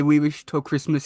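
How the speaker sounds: ordinary talk, nothing marked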